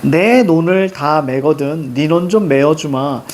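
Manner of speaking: put-on slow, measured reading of old verse; poem recitation. Teacher reading a sijo aloud to the class, slow and measured. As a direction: recite the sijo line slowly and evenly.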